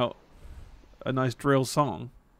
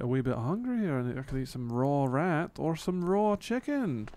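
put-on Australian accent. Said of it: "that's the accent that he's trying to do".

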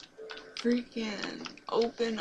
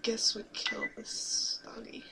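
mean and spiteful. Acted. Whispered mean remark about dog.

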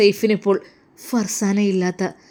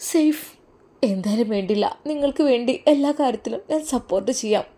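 tug at him for an answer; eager pressing wife; 2 semitones higher than usual. Acted. Wife urges Saif eagerly.

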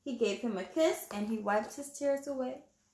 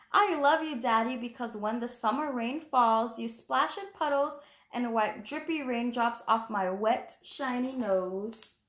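put-on reading to children; 2 semitones higher than usual. Reading the picture book aloud.

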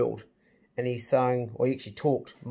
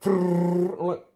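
retold amazement; 5 semitones higher, 5 dB louder, much slower than usual. Retelling amazed reaction to fast talk.

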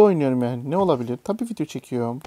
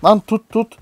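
loud, high, urgent yell at the screen; excited urging; 8 semitones higher, 10 dB louder, slower than usual. Real, not acted. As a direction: shout at the game to grab on. Urging character to grab ledge. (heyecanla bağırarak)

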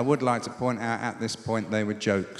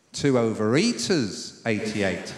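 slow drawn-out bingo call; bingo caller; 4 semitones lower, slower than usual. Acted. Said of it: "How about this?".

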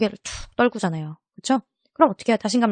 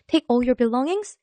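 subway announcement; 4 semitones higher, much slower than usual. Retold or imitated. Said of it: "지하철에서 들어봤습니다".

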